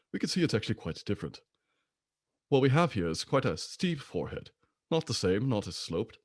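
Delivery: lightly put-on British accent while describing the goosander; a playful hint of a British accent; mock British accent. Lecturer showing the British goosander, in a light mock British accent. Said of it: "I'll stop with the accent".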